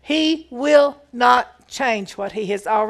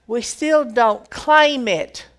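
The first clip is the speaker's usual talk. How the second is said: slow, louder, leaning on "claim"; emphasized claim; 5 dB louder, slower than usual. Shown as a demonstration. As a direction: press down hard on the word "claim". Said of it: "I want to emphasize that word".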